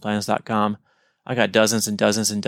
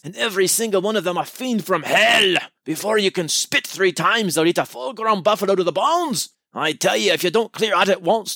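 higher-pitched Scottish brogue, dramatic and urgent; Scottish accent; 7 semitones higher than usual. Acted. District commissioner warning Lennigan of the ants, Scottish accent. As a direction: warn him in a thick Scottish accent. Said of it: "have a Scottish accent".

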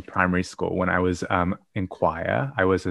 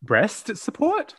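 surprised question; 11 semitones higher, slower than usual. Real, not acted. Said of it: "Breath support".

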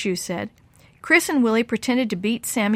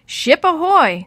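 pirate call; 8 semitones higher, 7 dB louder, slower than usual. Acted. Kids playing pirates.

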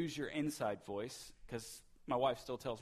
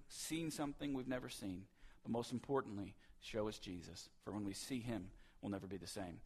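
earnest congregational prayer. Acted. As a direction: pray aloud to open the sermon. Opening prayer.

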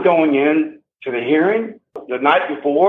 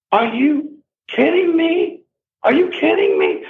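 incredulous, pitched way up; stunned high outrage; outraged disbelief; 11 semitones higher than usual. Real, not acted.

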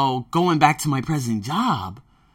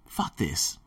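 low, much softer fed-up mutter; muttered to self; 10 semitones lower, 10 dB quieter than usual. Acted. Waking worker saying it to himself, muttered. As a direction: swear under your breath.

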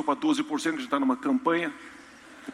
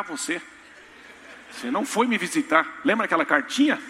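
put-on accusing child voice; 5 semitones higher, 4 dB louder than usual. Child voiced accusing him in heaven.

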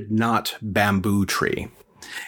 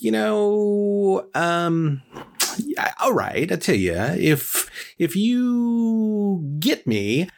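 higher put-on boss voice, slow and drawn out; Mister Big's voice; 4 semitones higher than usual. Employer setting Koa an impossible task, in a raised, slow put-on voice. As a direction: play the bargaining boss, pitched up and slow.

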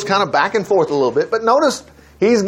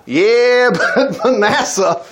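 amused concession; 4 semitones higher, much slower than usual. Real, not acted. Laughing as he concedes the catch.

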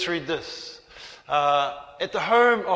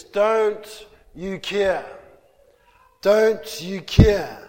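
mock yell; 4 dB louder, much slower than usual. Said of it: "they yell out to Jesus".

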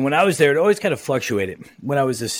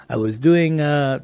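put-on horrible Italian accent; 3 semitones higher, 3 dB louder, slower than usual. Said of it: "this is horrible Italian accent".

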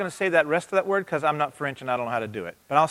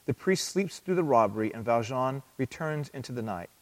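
story narration. Acted. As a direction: read the tale gently to the room. Reads a summary to congregation.

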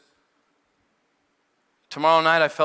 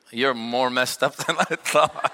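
laughing; 2 semitones lower, slower than usual. Retold or imitated. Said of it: "He goes".

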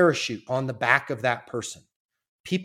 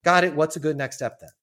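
slow. Shown as a demonstration. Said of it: "Like, just slow".

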